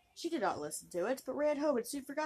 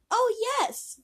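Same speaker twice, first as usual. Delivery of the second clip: very high, loud oh yes; eager princess; 12 semitones higher, 8 dB louder than usual. Acted. Princess eagerly agrees to the frog, high and loud. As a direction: gush out the promise.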